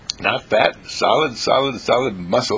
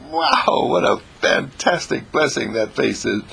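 amazed; 2 semitones higher than usual. Retold or imitated. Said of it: "and I said".

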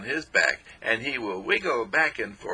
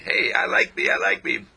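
called out to cells; 5 dB louder than usual. Shown as a demonstration. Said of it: "I'm saying".

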